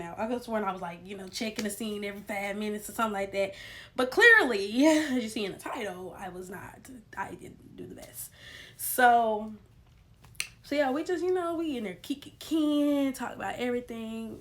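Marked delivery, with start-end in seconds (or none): 6.2-8.3 whispered confession; sheepish whisper. Real, not acted. Admitting to viewers she failed, whispered. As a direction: whisper it like owning up.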